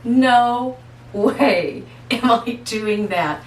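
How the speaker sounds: slowing into a put-on voice of disbelief; mock outrage at an onion; incredulous refusal. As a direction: balk at the idea of an onion.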